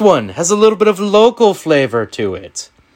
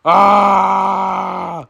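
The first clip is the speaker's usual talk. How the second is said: celebratory shout; 3 semitones higher than usual. Real, not acted. Celebrating shared pick.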